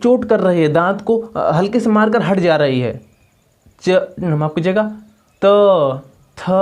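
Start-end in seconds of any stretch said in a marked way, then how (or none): 5.4-6.5 त and थ with a light tap of the tongue on the teeth; teacher showing त थ again; dental demo. Shown as a demonstration. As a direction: sound out त थ crisply. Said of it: "द स्पर्श कर रही है ना".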